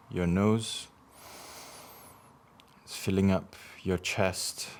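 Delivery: measured meditation guidance with long pauses for breathing; guided meditation. Acted. Guiding listeners to breathe in healing light, measured meditation voice. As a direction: lead each breath in short phrases, leaving space.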